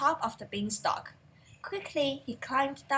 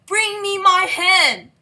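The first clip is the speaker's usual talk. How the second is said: slow, much louder bellow, higher; giant bellowing; 6 semitones higher, 14 dB louder, slower than usual. A narrator's reading. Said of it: "the giant bellowed".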